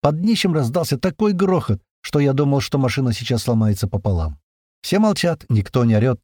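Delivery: ordinary delivery, nothing marked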